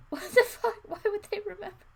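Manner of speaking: high, loud, disbelieving outburst; real surprise. Real, not acted. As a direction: blurt it out, truly thrown by the text. Reader reacts to the story text.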